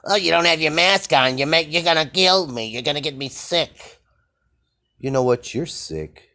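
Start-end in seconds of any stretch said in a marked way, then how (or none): 0.1-4.0 much higher, louder, hammed-up panicky voice; mock frightened whiner. Mocking people afraid of the unmasked, in a hammed-up panicky whine. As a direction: parody a hysterical scold afraid of germs. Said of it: "All these people afraid with their".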